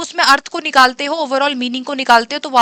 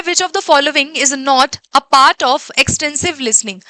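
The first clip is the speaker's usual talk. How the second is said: slow, deliberate exam-question read; reading the question aloud; much slower than usual. Acted. Teacher reading a test question to the class, slow and deliberate. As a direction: read it out slowly so students catch every word.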